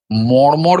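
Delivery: মর্মর with retroflex ড় in place of both r's; flapped ড় for র. Shown as a demonstration. Reciter asking what the changed sound suggests, মর্মর with hard ড়. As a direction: say মর্মর as "moṛmoṛ", tongue curled back. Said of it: "ডয়শূন্য র হতো".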